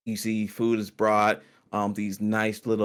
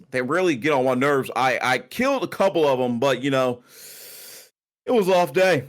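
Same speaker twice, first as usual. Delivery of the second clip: lightly voiced innkeeper. GM voicing Corwin about orcs.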